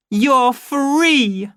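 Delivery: high, loud, stressing free; ringing cry of liberation; triumphant shout. Acted. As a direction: announce it to the whole crowd. Showing empty cash box, triumphant.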